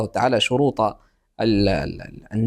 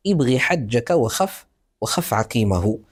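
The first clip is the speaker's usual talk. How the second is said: slow recited mnemonic; 2 semitones lower, slower than usual. Shown as a demonstration. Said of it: "هذه الحروف يجمعها قولك".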